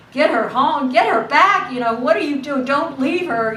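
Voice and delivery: insistent mother's orders, lightly voiced; urging mother. Mother tells her daughter what to do, mildly insistent. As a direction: press each short order home. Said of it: "her mom's saying".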